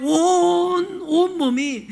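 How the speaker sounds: 온 stretched very long and high; drawn-out emphasis. Acted. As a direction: draw out 온 to show agony all over the body. Voicing Job's suffering, drawn-out word.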